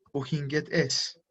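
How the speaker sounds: German phrase said slowly for students; slow and clear. Shown as a demonstration. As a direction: spell the sentence out calmly, word by word. Variante alemana dicha despacio. (frase alemana lenta y clara para la clase)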